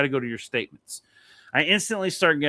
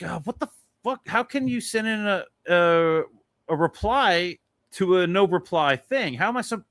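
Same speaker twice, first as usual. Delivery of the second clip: exasperated ranting; 4 semitones higher than usual. Retold or imitated. Retold exasperation at no-reply email.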